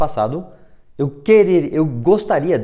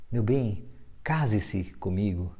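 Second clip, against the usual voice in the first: soft, slow, lower marriage proposal; pleading request; 4 semitones lower, 7 dB quieter, slower than usual. Shown as a demonstration. Suitor asking his sweetheart to marry him, pleading. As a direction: ask it softly and unhurriedly, as a request. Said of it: "Tá pedindo".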